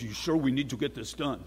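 lightly put-on Iranian accent. Restaurant owner pressing his electrician, Iranian accent. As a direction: imitate an Iranian speaker, lightly. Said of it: "That's my Iranian accent".

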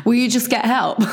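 mock-stern nagging; mock telling-off. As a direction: tell them off jokingly, laughter around it. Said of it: "like I'm telling you off".

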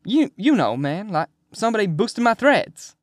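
amused at his own slang; happy. A narrator's reading. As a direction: explain it with bouncy high glee. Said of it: "he says happily".

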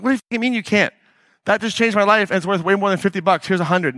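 high, pushy disbelief, pressing the cash on them; incredulous insisting. Retold or imitated. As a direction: act out shoving money at someone.

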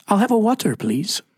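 wife's Scottish water order, imitated with a lilt; Scottish accent. Husband imitating his Scottish wife ordering, a mild Scottish accent. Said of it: "Mesquite, Texas".

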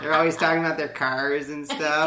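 put-on laughing through a Midwestern accent. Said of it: "a Midwestern accent".

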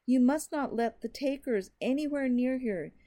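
loud, high, desperate shout. Acted. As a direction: shout it while being dragged away. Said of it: "shouting now".

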